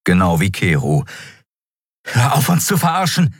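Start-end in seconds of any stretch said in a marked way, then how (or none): 2.1-3.3 hoher, empörter Ausbruch; herausgeplatzt. A narrator's reading. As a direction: platze verärgert damit heraus. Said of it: "platzte es aus ihr heraus". (empört herausgeplatzt)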